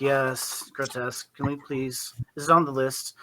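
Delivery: quiet, bored and dismissive; bored gnome. Acted. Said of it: "incredibly bored looking gnome".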